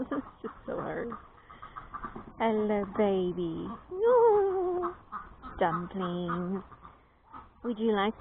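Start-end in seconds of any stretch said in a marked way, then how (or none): 2.4-3.7 drawn-out loving hello; tender hello. Real, not acted. Greeting a penguin tenderly. 3.9-4.9 high, louder squeal; delighted squealed no. Real, not acted. Playful squeal at the penguin.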